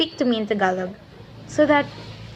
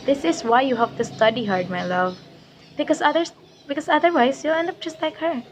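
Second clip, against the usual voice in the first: lightly voiced patronizing mother; condescending mother; 3 semitones higher than usual. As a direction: talk down sweetly, then lift the pitch. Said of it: "she turned to her daughter and said".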